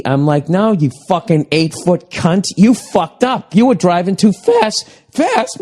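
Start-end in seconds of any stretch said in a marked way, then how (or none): 0.5-4.9 exasperated rant climbing in pitch; yelling at TV. Retold or imitated. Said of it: "I'm yelling at the T V". 5.1-5.6 very high cracked squeak; voice cracking. Real, not acted. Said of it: "My fucking voice cracking".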